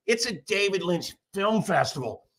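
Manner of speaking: put-on scolding festivalgoer's voice; mock indignation, drawn across each word; indignant festivalgoer. Imitating a woman correcting him at the festival, indignant. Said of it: "this fat bitch turns around".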